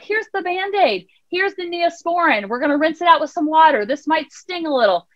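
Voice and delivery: put-on gently walk a hurt child through first aid; imitated reassuring mom; soothing parent. Parent tending a child's scrape.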